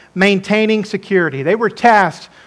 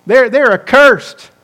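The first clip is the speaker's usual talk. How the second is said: contemptuous dismissal; 3 dB louder than usual. Retold or imitated. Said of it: "That's what they're saying there".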